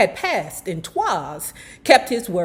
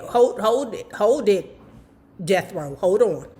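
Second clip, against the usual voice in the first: put-on gently steer the boy away, a touch of grandma; old lady. Old lady advising the singer to leave, lightly voiced. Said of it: "The little white old lady said".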